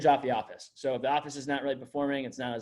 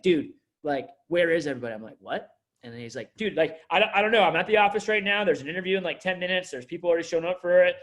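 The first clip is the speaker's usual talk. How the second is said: a touch of panic, quick and a bit louder; retold freaking out; 4 dB louder than usual. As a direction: imitate a frantic supervisor, lightly. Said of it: "He's, like, freaking out".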